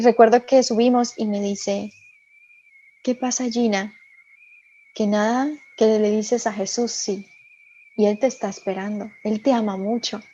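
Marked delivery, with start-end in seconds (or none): 3.0-10.2 softly voiced retold tenderness; gentle reassurance. Priest tells Gina she is loved, gentle reassurance.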